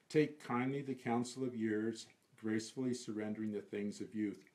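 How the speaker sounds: unhurried, measured verse reading; poem recitation. Acted. Reciting counsel about growing older, unhurried recitation. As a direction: recite it gently and evenly.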